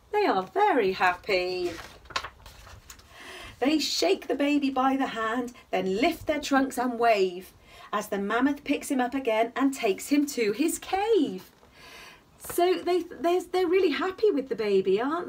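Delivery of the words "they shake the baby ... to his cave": gentle sing-song bedtime reading; cosy read-aloud storytelling; story narration. A narrator's reading. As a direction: read it like a rhyming picture book for little ones. Reading picture book aloud.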